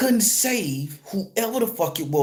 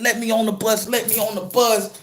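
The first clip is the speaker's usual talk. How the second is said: higher-pitched pleading, retold; acted begging; 5 semitones higher than usual. Driver crying to get on the bus, acted begging. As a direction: imitate a tearful plea. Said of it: "I'm begging".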